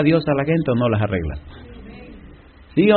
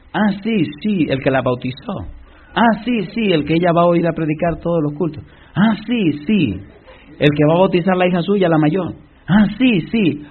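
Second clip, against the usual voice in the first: higher, rising "ah, sí" each time; dawning surprise; 4 semitones higher than usual. Retold or imitated. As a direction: realize it bit by bit. Husband slowly realizes who it is. (sorpresa creciente, más aguda)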